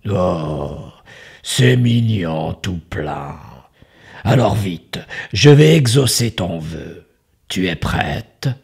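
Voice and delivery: a crafty wizard charming his guest; sly magician voice. Acted. Magician answers the girl.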